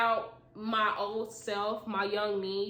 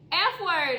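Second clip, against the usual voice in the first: scream; 7 semitones higher, 7 dB louder than usual. Acted. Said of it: "I screamed".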